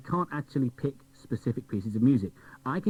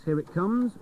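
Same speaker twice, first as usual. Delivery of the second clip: jumps up higher, eager; as if the prize is about to drop out; rising excitement; 8 semitones higher, slower than usual. Real, not acted. Presenter waiting on the jukebox, jumping up excited.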